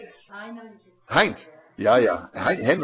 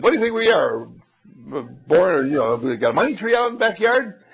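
scolding dad; 3 semitones higher than usual. Acted. Father refusing his son's endless wants, exasperated. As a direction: throw up your hands as a fed-up dad.

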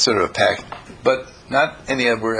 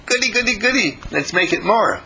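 mock glee; 9 semitones higher than usual. Mock glee at someone's problem.

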